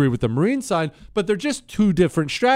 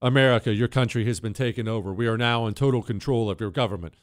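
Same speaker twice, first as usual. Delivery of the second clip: Chinese announcer; 5 semitones lower, faster than usual. Retold or imitated. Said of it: "some Chinese dude there saying".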